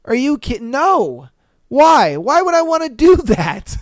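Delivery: put-on high, loud incredulous girlfriend voice; mock shocked girlfriend. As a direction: play her horrified, rising to a squeal. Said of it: "she's just like".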